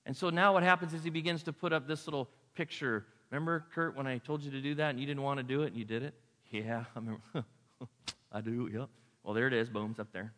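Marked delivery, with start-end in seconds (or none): 3.3-8.9 goofy voice. Retold or imitated. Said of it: "I don't know why I did goofy voice".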